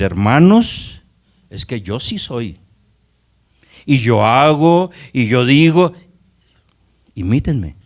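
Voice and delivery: mock boastful preacher, drawn-out rising phrases; self-important boasting. Preacher mimicking a man who tells the brethren to copy him, self-important. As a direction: puff yourself up, stretching the key words.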